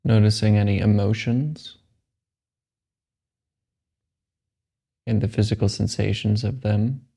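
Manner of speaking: slow, measured meditation guide; unhurried phrases with long, restful pauses; guided meditation. Acted. Guide telling a meditator to let the body relax, calm meditation voice.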